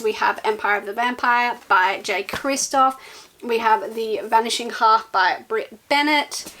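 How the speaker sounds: breathless from talking nonstop; out of breath. Real, not acted. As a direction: run short of air between titles. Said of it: "I'm running out of breath".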